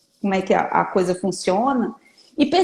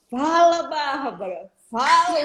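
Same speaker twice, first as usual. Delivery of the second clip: coaxing prompt; 3 semitones higher than usual. Retold or imitated. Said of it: "a mesa para pra falar assim".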